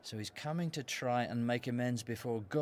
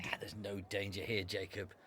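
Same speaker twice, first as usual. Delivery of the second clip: softer, lowered voice; 4 semitones lower, 6 dB quieter than usual. Acted. Abel reassuring Jacob in a lowered voice. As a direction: drop the voice as asked. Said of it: "Not so loud".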